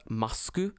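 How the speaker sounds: "masku" with an added final u; mock-katakana "masku"; Japanese pronunciation. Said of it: "in Japanese, it's pronounced".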